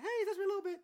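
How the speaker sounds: very high, laughing creepy voice; squeaky creepy voice, laughing. Retold or imitated. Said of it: "sorry about the creepy voice".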